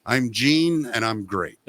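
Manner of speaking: lightly voiced, self-satisfied rock star. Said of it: "And he goes".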